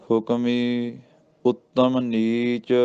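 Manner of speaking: slow chant, resting on ਨੀਚ; ਨੀਚ ਤੇ ਵਿਸਰਾਮ; pause after ਨੀਚ. Shown as a demonstration. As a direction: recite slowly and stop at ਨੀਚ. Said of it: "ਇੱਥੇ ਵਿਸਰਾਮ ਆ ਜੀ, ਨੀਚ ਦੇ ਉੱਤੇ".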